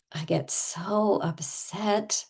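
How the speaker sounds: slow, drawn-out pretend upset; played-up distress; over-the-top upset. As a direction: lean hard and slowly into the complaint. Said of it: "we're gonna go over the top".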